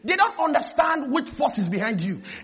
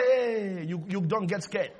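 soft, drawn-out hey; a harmless, unthreatening call; mild greeting; 5 semitones lower, 6 dB quieter than usual. Acted. Someone approaching you without scaring you, mild. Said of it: "if they come to you and say".

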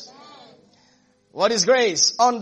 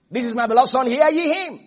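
raised, ringing preacher's quote; emphatic proclamation; 3 semitones higher than usual. Retold or imitated. Preacher repeating what God said on the mountain, emphatic. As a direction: proclaim it, lifting the pitch on the last words.

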